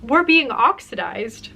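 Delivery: even storybook reading voice; calm read-aloud of a short story; story narration. Shown as a demonstration. Reads her story opening.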